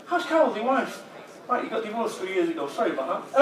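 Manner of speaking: lightly voiced breezy director; a hint of hollow corporate chat; fake small talk.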